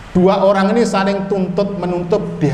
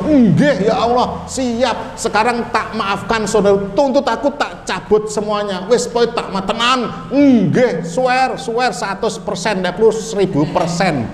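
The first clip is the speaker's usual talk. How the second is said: eager agreement; 4 semitones higher than usual. Acted. Man eagerly agrees to forgive.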